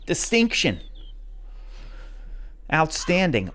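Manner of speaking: ordinary talk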